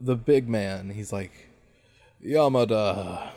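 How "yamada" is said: menacing boss. Retold or imitated. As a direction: let the threat sit in every pause. Boss menacing his underling.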